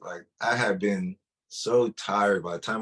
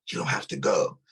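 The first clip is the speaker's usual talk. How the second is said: breathy voiceless whisper. Retold or imitated. Mysterious voice whispers to him, hushed. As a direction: whisper it right into the ear. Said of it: "if it whispered into my ear".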